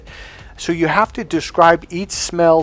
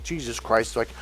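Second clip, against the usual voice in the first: eye-rolling men, imitated; 2 semitones lower, 6 dB quieter than usual. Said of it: "men just roll their eyes".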